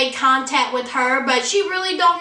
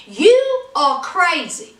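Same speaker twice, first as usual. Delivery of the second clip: incredulous friends; 4 semitones higher than usual. Retold or imitated. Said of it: "her two friends are looking at her like".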